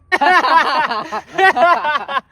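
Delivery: loud, high villain's cackle; mocking laugh. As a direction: laugh loudly in scorn at a desperate man. Gang leader laughs at the father. (खलनायक की ज़ोरदार हँसी)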